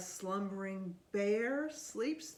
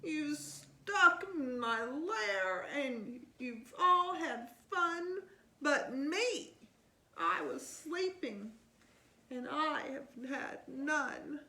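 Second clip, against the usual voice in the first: fussy bear; 5 semitones higher than usual. Acted. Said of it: "he whimpers and he moans".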